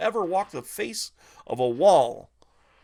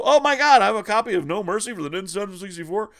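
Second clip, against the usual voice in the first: surprised gasp; 5 semitones higher, 6 dB louder than usual. Retold or imitated. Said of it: "he'd go".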